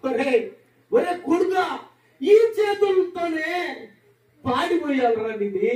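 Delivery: lamenting father shouting in grief; father's wailing lament. Retold or imitated. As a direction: wail over the dead son. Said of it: "అని చెప్పి ఆ శవం మీద పడి ఓ అని ఏడుస్తాడండి".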